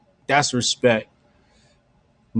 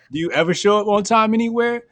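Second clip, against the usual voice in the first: joking jab; 5 semitones higher than usual. Retold or imitated. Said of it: "I'm cracking jokes".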